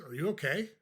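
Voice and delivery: questioning lilt, rising at the end; puzzled concern. Shown as a demonstration. Coach demonstrates a comeback to an insult, puzzled concern. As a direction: ask as if something is wrong with them. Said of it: "if you say it like that".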